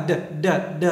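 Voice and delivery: "d" said very lightly, barely sounded; soft final d. Shown as a demonstration. Teacher tells students to say the d softly. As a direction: read the d softly. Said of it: "đọc nhỏ thôi".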